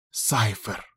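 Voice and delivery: tense whisper. A narrator's reading. Ezra naming her dangerous target to her friend, a tense whisper. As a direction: barely dare to say his name. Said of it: "прошептала Эзра".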